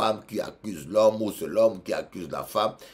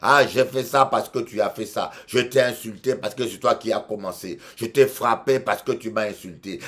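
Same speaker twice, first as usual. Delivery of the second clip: raised, louder mock self-justification; mock excuses; 4 semitones higher, 6 dB louder than usual. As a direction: play the sinner excusing himself, pushing it. Mimics excuses of sinners. (le pécheur qui se justifie, imité avec insistance)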